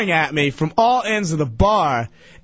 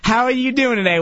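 lightly voiced high older woman; a hint of a high female voice; older lady; 5 semitones higher than usual. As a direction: imitate the chatty lady a little higher. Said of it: "She goes".

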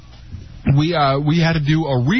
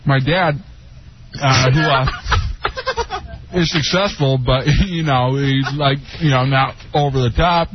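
chewing while talking; mouth full. Real, not acted. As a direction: talk through a mouthful. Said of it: "food in your mouth".

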